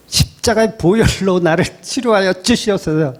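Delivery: hammed-up pious pleading prayer; mock prayer voice. Churchgoer imitated begging God for healing, mock pious prayer. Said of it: "막 이러고 있잖아요".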